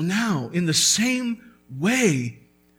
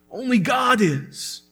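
preaching shout; 5 semitones higher than usual. Real, not acted. Pastor proclaims to his church, a full preaching shout. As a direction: declare it full-voiced to close the point. Preacher's climax on God's holiness.

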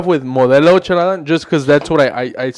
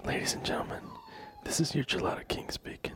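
airport announcement; 22 dB quieter than usual. Pretend. Mock pilot-style announcement to viewers.

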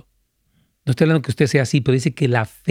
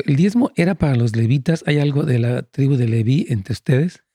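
laughter breaking into the words; can't keep a straight face reading it; half-laughing read of the question; reading through laughter. Real, not acted. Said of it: "Perdón que me ría".

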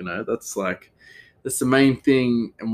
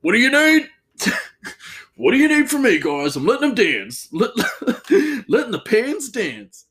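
much higher, louder, hammed-up chef; mock chef voice; 13 semitones higher, 4 dB louder than usual. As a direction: squeal it like a giddy showman cook. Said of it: "I often think of this guy and I go".

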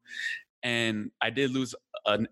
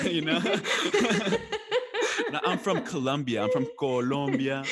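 laughing through the words, a little higher; 4 semitones higher than usual. Retold or imitated. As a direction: proudly insist on it while chuckling. Laughing while claiming Colombian roots.

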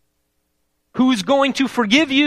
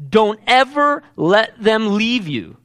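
slow, every word pressed; slow emphatic paraphrase of the verse; slower than usual. Retold or imitated. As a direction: lean hard on each word like a command. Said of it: "notice how emphatic he is".

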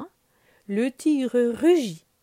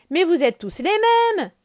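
put-on louder, sulky grumble of a boy; grumbling; 9 semitones higher, 8 dB louder than usual. Mowgli grumbling at Balou, sulky and loud. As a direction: grumble it like a sulking child. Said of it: "maugèrent Mowgli".

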